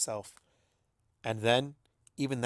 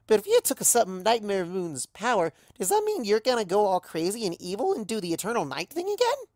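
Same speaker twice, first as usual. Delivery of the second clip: much higher, louder, breathless alarm; gasping worry; 9 semitones higher, 5 dB louder than usual. Acted. Pinky fretting to Luna about Nightmare Moon, high. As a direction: rattle it off in a panic. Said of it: "Pinky gasps".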